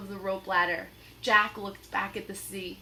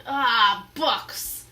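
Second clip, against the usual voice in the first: lightly growled disgust; mild pirate growl; 9 dB louder than usual. Acted. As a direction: grumble at books. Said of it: "growled Captain Bones".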